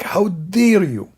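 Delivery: slow, drawn-out mock indignation; hammed-up slow fury; mock outrage. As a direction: stretch out how dare you, mocking his anger. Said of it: "so angry from the guy".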